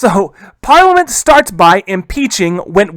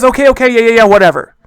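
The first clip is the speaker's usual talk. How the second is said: mock impatient brush-off, slightly raised; dismissive; 2 semitones higher, 4 dB louder, faster than usual. Charles answering Parliament's demands, mock dismissive. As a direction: wave it away as the grudging king.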